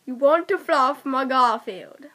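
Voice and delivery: lightly attempted Cockney accent. Player repeats a sentence for friend to guess, Cockney accent.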